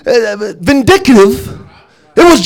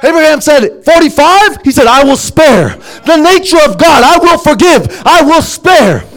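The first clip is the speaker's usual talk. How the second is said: raised, ringing sermon voice, high and driving; fiery preaching; 3 semitones higher than usual. Acted. Preacher to congregation on God's mercy, in a fervent raised voice. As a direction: preach it out with rising fire.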